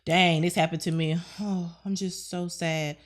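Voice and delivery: lightly acted woe-is-me; understated pretend moping; mock self-pity. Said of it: "you can't sit in woe is me".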